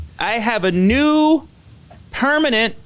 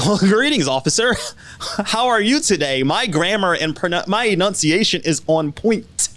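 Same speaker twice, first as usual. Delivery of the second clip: proper cop voice. Retold or imitated. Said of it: "when I'm talking to a cop, it's like".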